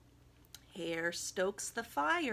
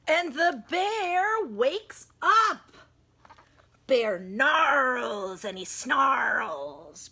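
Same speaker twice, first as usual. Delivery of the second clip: much louder, slow rumbling reading; growling bear; 10 dB louder, slower than usual. A narrator's reading. Narrator acting out the bear waking angry, loud. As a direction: roar the words like an angry bear.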